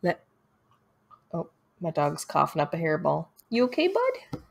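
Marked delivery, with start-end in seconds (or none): 3.5-4.4 high, soft check-in with a pet; concerned pet talk. Real, not acted. Owner to dog coughing up a hairball, concerned pet talk.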